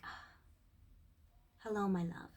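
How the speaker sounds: tender greeting. Retold or imitated. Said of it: "you open your heart and you're like".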